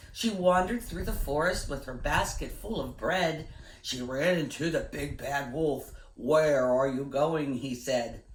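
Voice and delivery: put-on gentle, rhythmic read-aloud for kids; reading a poem to children. Teacher reading a rhyming poem to boys and girls, storytelling voice. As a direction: lilt the rhyme for a class.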